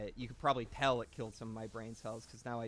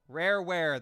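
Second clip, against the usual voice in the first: excited cheer; 5 semitones higher, 10 dB louder than usual. Real, not acted. Cheering the game studio.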